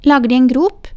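put-on high, loud, friendly child's question. A narrator's reading. Child asks grandmother about digging a hole, friendly and high. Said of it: "spurte barnet vennlig".

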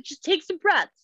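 high, slow mock child coaching; child coaching mom. Mom retells her son calming her, in a high, slow mock child voice. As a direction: gently coach mommy to breathe, like a small boy. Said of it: "he did it in the tone and the way that I have always done it".

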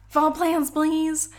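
high, loud whiny repeat; mock whiny request. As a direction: whine it like a pestering fan. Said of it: "a couple people ... have said".

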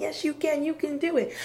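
high, eager reassurance; encouraging. Acted. People next to a scared climber, acted encouragement.

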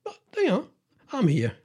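a cocky squirrel shrugging off the humans; lazy squirrel. Acted. Voicing lazy grey squirrels.

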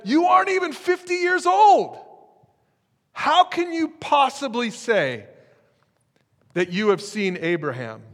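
boiling crowd shouting at Jesus, loud outrage; angry crowd. Retold or imitated. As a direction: shout it like a furious mob. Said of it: "the temperature in the room starting to boil".

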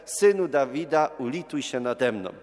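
loud imitated plea, settling by the end. Retelling the beggar's call to Jesus, calling out loudly. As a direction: call out as the beggar, strong on the first words. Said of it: "zaczął jeszcze głośniej wołać za Jezusem".

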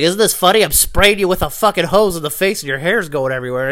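gleeful mock host; mocking prankster voice. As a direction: sneer it like a smug prankster. Mocking prank-show hosts.

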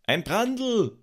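very high, sustained fire cry; alarmed call. A narrator's reading. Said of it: "Doch dann ruf jemand".

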